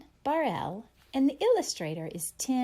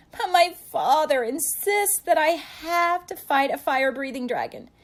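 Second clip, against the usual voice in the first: high, louder knight voice; whiny knight; 7 semitones higher, 6 dB louder than usual. Acted. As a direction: plead like a timid little knight. Knight explains his duty.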